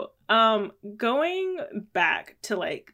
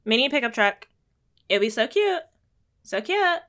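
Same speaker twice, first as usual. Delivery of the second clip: higher, sweet pitch-meeting voice; white lady voice; 3 semitones higher, 4 dB louder than usual. Pretend. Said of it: "I'll put on my white lady voice".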